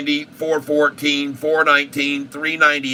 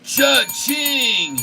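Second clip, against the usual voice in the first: cha-ching; 10 semitones higher than usual. Real, not acted. Celebrating profit.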